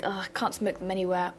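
ordinary talk

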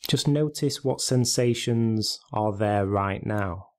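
measured meditation guide, long pauses between phrases; guided meditation. Real, not acted. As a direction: gently guide listeners into stillness, leaving space after each instruction.

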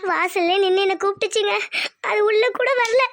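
tearful account; crying. Acted. Wife telling husband her mother stayed outside, crying. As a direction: keep telling it through sniffles. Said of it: "அதுக்கு ஏன் அழுகுற நீ?".

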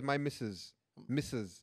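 put-on light Ugandan accent on missus. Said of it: "how you say it in a Ugandan accent".

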